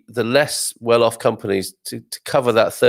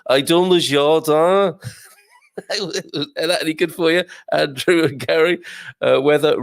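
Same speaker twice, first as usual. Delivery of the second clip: a viewer's request answered in a hammed-up Brummie French accent; Brummie speaking French; 5 semitones higher than usual. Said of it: "try that Brummie speaking French".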